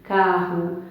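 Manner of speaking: "Carro" ending on a clear U; "Carro", written O sounded as U; final O as U. Shown as a demonstration. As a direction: pronounce "Carro" as CA-rru. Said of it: "mas tem som U".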